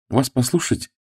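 girl half-mocking, half-cross; half joking, half annoyed. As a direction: laugh at him while irritated. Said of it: "наполовину шутливо, наполовину раздражённо".

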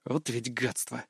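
low, soft, slow grumble; grimacing disgust. A narrator's reading. Hero grumbling about fan club, low disgusted. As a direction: spit it out with a grimace. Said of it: "скривился я".

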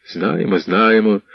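muttered, dismissive repeat; displeased grumble. Acted. Іванко grumbling at the eager youths, mild displeasure. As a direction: brush them off, annoyed. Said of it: "буркнув невдоволений Іванко".

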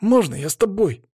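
put-on high boyish request; pleading boy. A narrator's reading. Boy asks the traveller to take him, high voice. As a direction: ask high, like a hopeful kid.

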